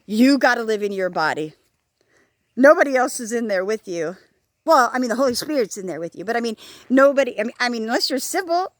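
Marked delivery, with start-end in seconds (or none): none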